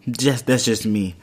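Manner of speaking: ordinary talk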